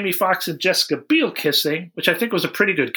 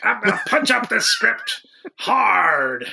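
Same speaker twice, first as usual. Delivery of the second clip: mock tough guy; 6 semitones higher than usual. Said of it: "He's like".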